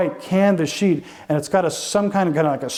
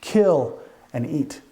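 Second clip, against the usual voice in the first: voice of God; 2 semitones lower, slower than usual. Acted. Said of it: "there came a voice to him".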